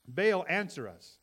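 loud, slow plea to Baal; calling out. Acted. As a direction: call on the idol, drawn out and loud. Baal's prophets call on their god.

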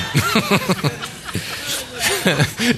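high burst of real laughter. Real, not acted. Preacher laughing at own joke, high laugh.

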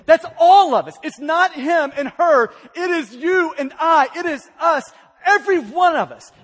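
loud preacher emphasis; forceful preaching. Real, not acted. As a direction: hammer it home to the whole room. Preacher driving home universal sin.

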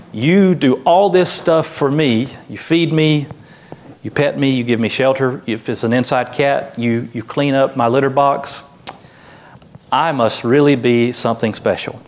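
lightly voiced self-satisfied cat; self-centered cat. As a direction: start emphatic, settle into smug musing. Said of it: "And the cat says".

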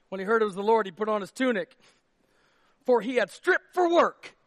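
loud, high fired-up preaching; preaching at full force. Acted. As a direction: preach it out to the crowd. Reads the verse fired up.

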